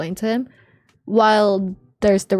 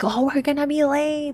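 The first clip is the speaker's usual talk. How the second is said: put-on really, really loud, high-pitched screaming voice; 6 semitones higher than usual. Retelling the morning, the speaker quotes her screaming in a really loud voice. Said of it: "really, really loud voice".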